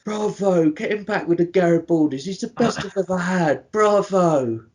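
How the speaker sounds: high, far-from-own put-on voice with loud bravos; toothless character voice. Co-host relishing a favourite quote, toothless impression. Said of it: "so satisfying to say in this voice".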